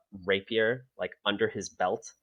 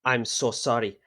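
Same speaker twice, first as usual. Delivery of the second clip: higher, louder flustered excuse in a put-on voice; flustered apology; 5 semitones higher, 6 dB louder than usual. Student explaining the fall to the headmaster, flustered put-on voice. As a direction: talk fast past the embarrassment.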